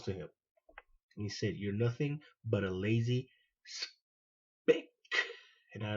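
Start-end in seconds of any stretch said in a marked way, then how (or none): 1.6-4.9 slow contemptuous slur. Retold or imitated. Sergeant's slur, quoted slowly.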